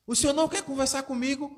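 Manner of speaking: high, fast daughter's plea; pleading daughter. Retold or imitated. Daughter pleads with her father, high and fast.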